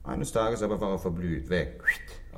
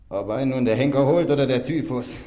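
defiant outburst; 3 semitones higher, 7 dB louder than usual. Acted. Defiant confession to the inspector.

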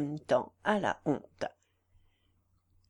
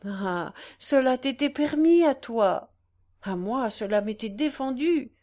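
remorseful lament; 3 semitones higher, 4 dB louder than usual. Acted. Mother's remorseful confession.

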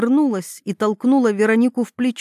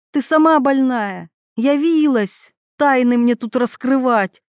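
angry shouting; 3 semitones higher, 3 dB louder than usual. Acted. Mila shouts back.

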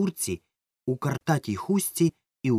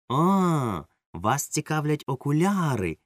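exclaiming; 6 semitones higher, slower than usual. A narrator's reading. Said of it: "вигукнула двірничка".

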